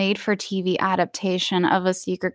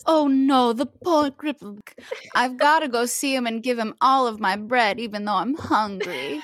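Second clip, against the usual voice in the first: mock pious Sarah; 3 semitones higher than usual. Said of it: "Sarah would have been like".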